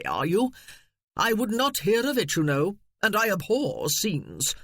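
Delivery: a hint of a smug, condescending relative; mild snooty gentleman; pompous cousin. Narrator voicing pompous cousin Cecil.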